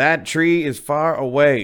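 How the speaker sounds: very loud, drawn-out high shout. Re-enacting repeating a remark to his wife who didn't hear, retelling a yell. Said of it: "now i'm yelling".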